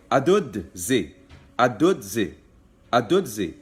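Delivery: adud zi spoken slowly and firmly; slow command demo. Shown as a demonstration. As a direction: model adud zi for learners. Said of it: "you would say".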